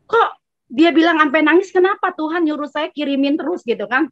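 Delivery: mildly startled, wondering; a touch of puzzled surprise; retold surprise. Woman recalling her reaction to friend's tears, mildly surprised. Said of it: "Terus saya kaget".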